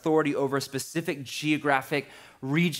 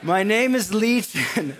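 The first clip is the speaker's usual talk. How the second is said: louder, higher demon declaration; louder demon try; 6 semitones higher, 5 dB louder than usual. Acted. Preacher retrying the demon line, louder and higher. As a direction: push it out loud and high. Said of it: "I need, like, a man voice there".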